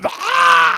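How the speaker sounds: loud, high comic scream; hammed-up yelp of horror; mock scream. Imagining a squirrel-bitten hand shrivelling, mock scream.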